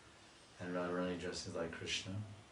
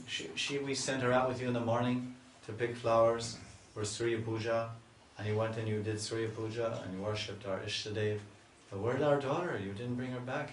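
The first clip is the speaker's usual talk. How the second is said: anxious mother; 3 semitones higher, 5 dB louder than usual. Retold or imitated. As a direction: plead like a frightened mother. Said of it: "Kirtita Mata, she'll say".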